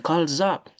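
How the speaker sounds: "Calls up" run together as call-zup; z liaison. Shown as a demonstration. Teacher showing how to link, z liaison. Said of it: "Faut faire liaison comme ça".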